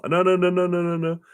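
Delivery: high, emphatic string of no's; mock refusal. People who don't want to, refusing with high emphatic no's.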